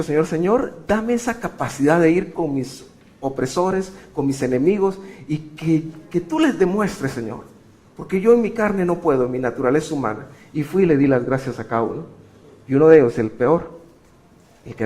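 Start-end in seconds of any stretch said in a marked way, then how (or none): 0.0-10.3 pleading prayer. Retold or imitated.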